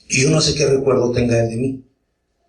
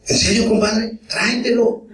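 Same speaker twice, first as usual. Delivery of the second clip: much higher, eager father's exclamation; padre entusiasmado; 9 semitones higher than usual. Retold or imitated. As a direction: sound thrilled at the offer of a boxing coach. Padre entusiasmado ante la oferta. (padre emocionado, con la voz mucho más aguda)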